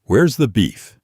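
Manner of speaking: a touch of irritation in the question; annoyed voice. Retold or imitated. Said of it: "in the most annoyed voice ever recorded".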